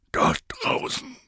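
shaky, tearful voice; trembling voice. Acted. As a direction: quaver through tears. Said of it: "mit zittriger Stimme".

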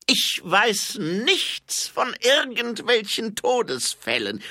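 high, loud, drawn-out denial; defiant shout. A narrator's reading. Cornered baroness denying any deaths to Mumm, defiant shout.

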